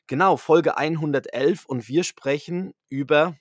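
usual speaking voice

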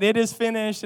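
attempted British accent. Preacher imitates a movie Jesus, attempted British accent. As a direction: have a rough go at a British accent. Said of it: "in a British accent".

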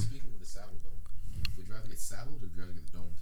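distant, soft, off-mic delivery; away from the mic. Real, not acted. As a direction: say it too far from the microphone. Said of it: "grab the mic".

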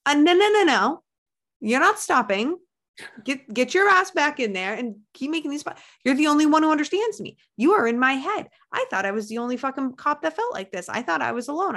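high, loud, urgent pleading; excited fan outcry. Retold or imitated. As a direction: insist she can't quit, almost shouting. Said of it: "they were like".

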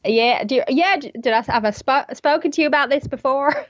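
put-on high cowboy-kid Western voice; cowboy accent. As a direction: chat in a Western twang. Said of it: "and I spoke like this".

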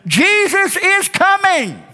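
high, drawn-out preacher's shout; rallying shout. Shown as a demonstration. Preacher leading a voice lesson, rallying shout. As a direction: shout it out for everyone to echo. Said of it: "Come on, shout it".

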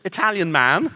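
high, loud, hammed-up fumbling excuse; mock flustered excuse. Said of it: "You can't go".

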